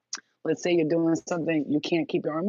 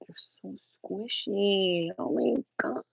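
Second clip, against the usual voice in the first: mock squeal; 4 semitones higher, 3 dB quieter, slower than usual. Voicing a squishy-toy squeal.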